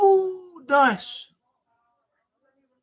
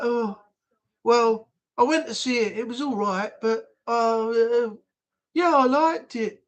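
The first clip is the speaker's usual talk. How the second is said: put-on Birmingham accent. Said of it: "That's the way the Brummies speak".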